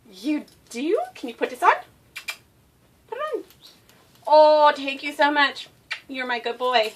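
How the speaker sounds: high, gushing praise to a dog. Real, not acted. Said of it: "annoying high-pitched baby voice".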